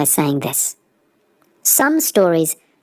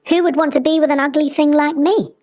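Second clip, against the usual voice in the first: self-pitying; 8 semitones higher, faster than usual. Acted. Honk calls himself ugly.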